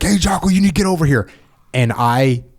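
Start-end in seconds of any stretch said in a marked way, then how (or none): 0.0-1.3 higher, quicker barked order across the room; mock yell. Teammate under pressure yelling at Jocko, mock yell. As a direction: call him over like you're losing patience. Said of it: "you start yelling like".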